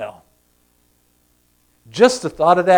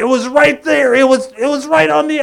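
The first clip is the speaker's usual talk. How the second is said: raised, louder, stammering protest; exasperated disbelief; 9 semitones higher, 5 dB louder than usual. Acted. Preacher voicing the fans' lost opportunity, exasperated disbelief. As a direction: protest as if it slipped away.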